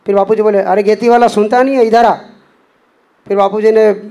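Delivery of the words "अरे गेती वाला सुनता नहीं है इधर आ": calling out. Retold or imitated. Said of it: "ऐसी दो तीन बार आवाज़ लगाई".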